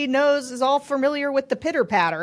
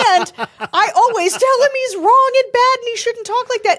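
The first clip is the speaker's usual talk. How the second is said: higher and louder, laughing through the words; can't keep a straight face; laughing while talking; 12 semitones higher, 7 dB louder than usual. Retold or imitated. Host teasing her cohost about his rants, laughing.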